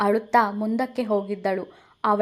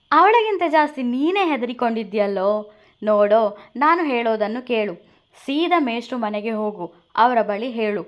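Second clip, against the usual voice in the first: a bit louder, teasing friend; Veda teasing friend; 4 dB louder than usual. Acted. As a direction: needle your nervous friend. Veda voiced in story. (ಸ್ವಲ್ಪ ಜೋರಾಗಿ ಛೇಡಿಸುವ ಗೆಳೆಯ)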